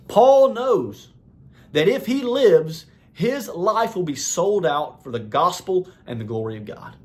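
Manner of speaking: high-pitched, emphatic pulpit delivery; fervent preaching. Real, not acted. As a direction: preach it with conviction, pitch lifted. Preaches with rising fervour.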